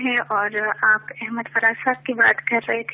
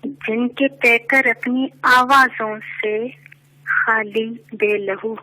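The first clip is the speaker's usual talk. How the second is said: measured poetic recitation, lower; stately nazm recitation; 3 semitones lower than usual. Acted. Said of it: "ایک نظم پیش کرنا چاہوں گی".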